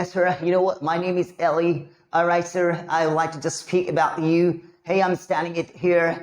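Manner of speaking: slow, drawn-out American-style English; put-on American accent. Shown as a demonstration. Teacher showing students how they will sound, put-on American accent. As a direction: speak in a stretched call-centre American accent. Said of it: "इस तरीके से आप बोलोगे".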